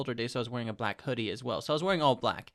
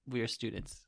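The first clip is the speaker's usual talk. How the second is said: whisper; 3 semitones lower, 6 dB quieter than usual. Acted. Joking whisper aside.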